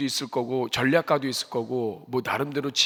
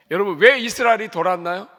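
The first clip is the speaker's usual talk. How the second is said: loud question; 6 semitones higher, 9 dB louder than usual. Real, not acted. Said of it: "preacher asks congregation".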